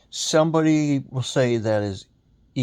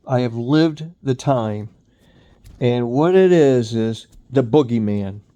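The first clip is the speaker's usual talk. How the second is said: raised, emphatic ranting voice; heated rant; 5 dB louder than usual. Real, not acted. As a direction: hammer the point home, loud. Ranting about boomer blame.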